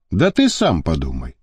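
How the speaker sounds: calm, sensible counsel; reasoning. A narrator's reading. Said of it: "рассудительно заметил".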